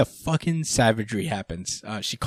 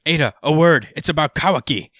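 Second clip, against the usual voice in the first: calling out; 5 semitones higher, 5 dB louder than usual. Retold or imitated. Villain calling for attention.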